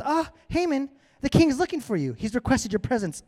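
lightly voiced messenger.

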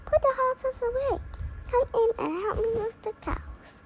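high, whiny put-on voice with a cry; mock-wail the farmer's orders; playful man voice. Farmer's lines voiced by child.

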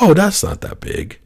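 imitating a small boy, high-pitched; relieved little kid. Four-year-old son lifted up by dad over the wave, relieved. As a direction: put on a child's high, reassured voice.

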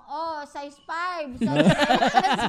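imitating a stockroom shout, drawn out; drawn-out imitation of a shop clerk's yell; mock store shout. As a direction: call the shoe size up to the stockroom. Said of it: "sumisigaw lang".

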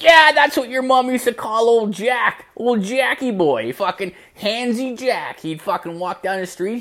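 high, animated mock-dad voice; excited recollection. Dad remembering old Handsy Jack, excited. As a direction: jump in high and eager.

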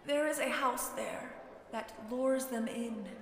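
put-on soft, haunted old man; grave old man. A narrator's reading. Old man telling the girl about the luring house, grave. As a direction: reveal it gravely, in a hushed voice.

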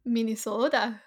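lightly put-on Minnesotan accent. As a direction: say it with rounded Minnesotan vowels. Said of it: "you should do a Minnesotan accent".

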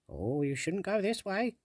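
high, slow pleading fairy; a tiny sprite warning gently. Acted. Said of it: "the sprite said".

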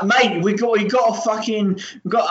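put-on a rough, half-hearted New Zealand accent; attempted New Zealand accent. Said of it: "this is me trying to do a New Zealand accent".

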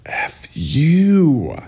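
breathy whispered insult; hissed-out whispered curse. Real, not acted. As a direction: whisper it under your breath.

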